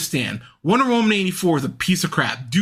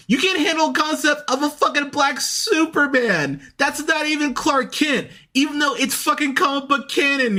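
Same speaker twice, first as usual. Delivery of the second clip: mock the whiners in a raised exasperated voice; exasperated rant. Rolling eyes at whiners, exasperated raised rant. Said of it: "makes me roll my eyes and go".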